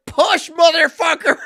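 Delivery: furious high shout, slow and drawn; full-throated gaming rage yell; screaming. Retold or imitated. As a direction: yell at teammates to push. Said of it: "I'm constantly screaming at these two".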